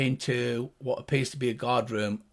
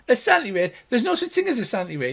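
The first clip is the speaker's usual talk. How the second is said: fast, high arguing gnome; high-pitched gnomish voice; 8 semitones higher, 4 dB louder, much faster than usual. Acted. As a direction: bicker quickly as a little gnome. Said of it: "the two high-pitched gnomish voices".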